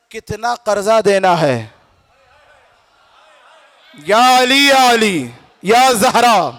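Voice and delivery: projected sermon storytelling with acted dialogue; preacher playing questioner and debtor; dramatic preaching. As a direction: declaim the exchange, pitch climbing to the final command.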